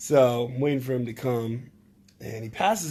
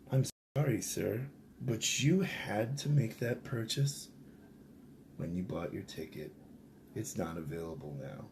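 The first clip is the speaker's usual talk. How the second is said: mock polite; 4 semitones lower, 9 dB quieter than usual. Steward's polite refusal.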